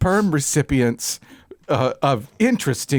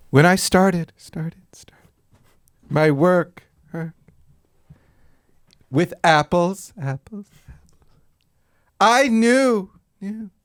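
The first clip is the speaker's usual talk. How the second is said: mock echo; 3 semitones higher, slower than usual.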